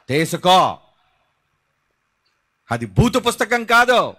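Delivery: loud, defiant preacher's declamation; forceful preaching. Acted. Preacher insisting on the right to hand out Bibles, forceful. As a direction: hammer out each claim to the crowd.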